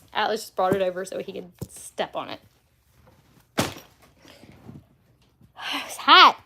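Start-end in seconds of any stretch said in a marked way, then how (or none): 5.9-6.4 put-on baby talk. Shown as a demonstration. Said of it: "Can you say hot?".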